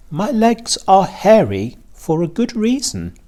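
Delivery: high, lightly voiced spider; Charlotte the spider. A narrator's reading. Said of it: "replied Charlotte".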